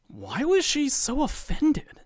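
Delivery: wondering. Acted. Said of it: "he wonders aloud".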